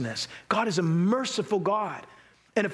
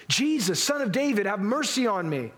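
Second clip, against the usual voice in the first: crying out for mercy; 4 semitones higher than usual. Acted. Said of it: "And he cried out".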